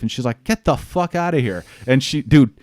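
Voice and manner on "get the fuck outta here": high-pitched blown-away reaction; imitated disbelief. Woman learns who he is, blown-away disbelief. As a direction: exclaim it high, mimicking her amazement. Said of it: "she's totally fucking blown away".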